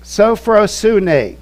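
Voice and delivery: Sophrosune said very slowly, each syllable sophro-su-ne; Greek term spelled out. Shown as a demonstration. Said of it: "Sophrosune means sound judgment".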